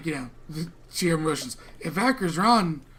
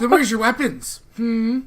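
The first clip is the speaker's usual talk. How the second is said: accusing challenge; 5 semitones higher, 7 dB louder than usual. Acted. Tyr accuses the party.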